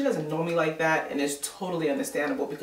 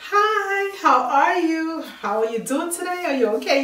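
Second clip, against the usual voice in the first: much higher, louder, bubbly cheerful hello; jolly greeting; 12 semitones higher, 5 dB louder than usual. Retold or imitated. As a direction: sing out a cheery hi to a neighbor. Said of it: "I'm all jolly".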